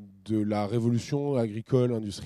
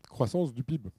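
usual speaking voice

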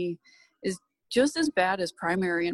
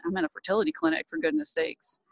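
quick, high, incredulous retort; exasperated; 9 semitones higher than usual. Retold or imitated. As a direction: fire it back in disbelief.

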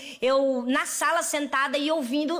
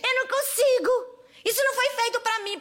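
mock whine; 6 semitones higher than usual. Mocking whiny excuse.

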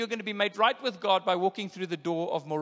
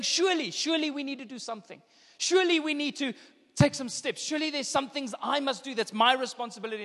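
higher-pitched, insistent protest; acted earnest objection, pitched up; protesting objector; 5 semitones higher than usual. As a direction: plead that something must be required. Voicing people objecting to grace.

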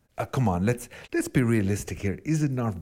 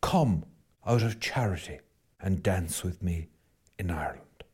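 poem recitation; 4 semitones lower, 4 dB quieter than usual. Shown as a demonstration. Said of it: "in the words of W B Yeats".

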